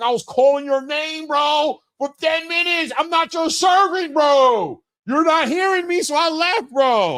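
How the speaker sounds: play-acted screaming, high and drawn out. Retelling what was said to Angelo four seats down: imitating own screaming. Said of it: "I be screaming on him".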